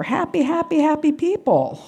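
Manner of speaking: high, slow dreamy hippie voice; lightly voiced dazed happy hippie; mock blissed-out hippie. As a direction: float it like a stoned flower child. Mocking the sixties hippie crowd.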